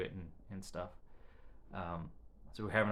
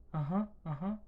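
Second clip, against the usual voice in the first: higher, louder imitation of the son's uh-huh; imitating her son; 9 semitones higher, 3 dB louder than usual. Mother imitating her nonverbal son answering yes, higher grunts. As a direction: echo the boy's eager grunted yes.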